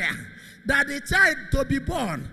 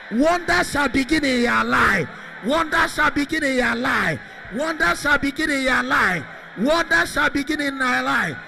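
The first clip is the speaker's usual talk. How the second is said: loud, chanting revival preacher, line after line; full-force preaching; 4 dB louder than usual. Real, not acted. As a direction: declare blessings at a shout in repeated falling phrases. Declarations shouted over the congregation.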